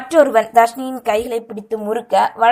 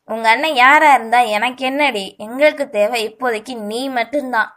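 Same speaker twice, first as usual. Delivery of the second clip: loud, mocking street thug; a leering goon taunting his victim; sneering thug; 4 dB louder than usual. Thug taunts the cornered girl. (கேலி செய்யும் rowdy குரல்)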